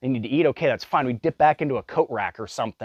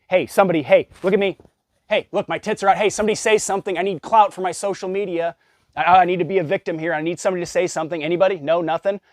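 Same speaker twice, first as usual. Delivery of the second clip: much higher, louder whiny call for attention; mocking attention seeker; 6 semitones higher, 4 dB louder, faster than usual. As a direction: ham up a mom begging for a reaction. Mocking attention-seeking breastfeeding mom.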